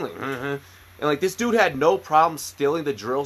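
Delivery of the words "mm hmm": low, soft imitated mm-hmm. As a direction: hum it quietly like the swamp guy. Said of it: "he would even do that thing".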